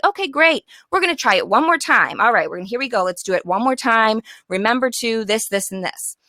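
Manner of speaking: cheerful redo. Shown as a demonstration. Teacher cheerfully asking the class to redo it, upbeat. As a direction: keep it light and encouraging. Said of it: "You're just like".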